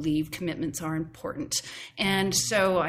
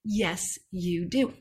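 bickering voices; slower than usual. Retold or imitated. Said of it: "had this argument with myself".

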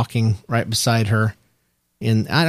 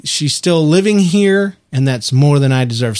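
slow lyric recital. Shown as a demonstration. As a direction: read the lyric back slowly to the cohost. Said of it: "let's see".

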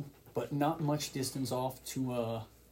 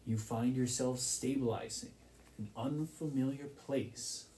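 scene setting; 4 dB quieter than usual. Acted. Game master setting the scene for players, hushed narration. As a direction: paint the strange new land softly.

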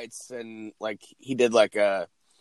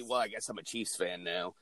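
resigned mumble; 6 semitones lower, 13 dB quieter than usual. Retold or imitated. Mock resigned fan.

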